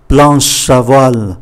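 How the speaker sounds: Planche à voile joined up as plan-sha-voile; linked words. Shown as a demonstration. Teacher repeating the term for learners, linked words. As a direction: link Planche onto à in Planche à voile. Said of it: "Đây chúng ta phải đọc nối".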